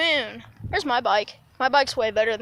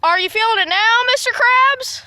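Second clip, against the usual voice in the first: Mister Krabs voice; 10 semitones higher, 6 dB louder than usual. Pretend. Teasing friend after a fall.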